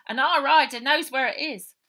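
a hint of an eager small child; small child's voice. Child Baby voiced in story.

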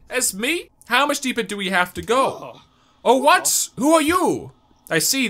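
high, slow, hammed-up old man; voicing NPC Sly. Reading the game's old villager, high and slow. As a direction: ham up the old bug.

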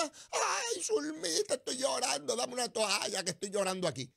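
high, hammed-up crying to Zulmita; mock weeping. Host fakes weeping to his cohost, high mock whimper. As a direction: whimper theatrically for sympathy. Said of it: "Para llorar me quedo en casa y lloro".

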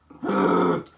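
loud, low gasp; sharp scared intake of breath; startled gasp. Real, not acted. Player frightened by the game, startled gasp.

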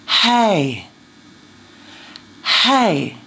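Hey with breath escaping before the voice; breathy onset on Hey; aspirate hey. Shown as a demonstration. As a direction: let air lead into Hey. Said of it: "Say this after me".

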